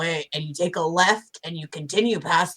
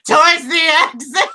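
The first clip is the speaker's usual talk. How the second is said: high, raised voice for all to hear; saying it loudly; 11 semitones higher, 7 dB louder than usual. Acted. Player acts Pick announcing the exit, loudly. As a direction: pitch it high and project it. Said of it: "Pick says loudly".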